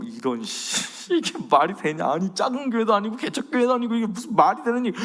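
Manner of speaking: mock inner outrage; fuming under his breath; inner fury. Preacher's inner anger at not being paid, mock fuming. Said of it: "불이 일듯 일어나는 거".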